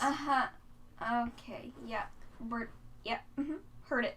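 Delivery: very soft, half-hearted agreeing; imitated weary listener, trailing agreement; tired polite acknowledgment. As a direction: mutter along as if humoring a repeated joke.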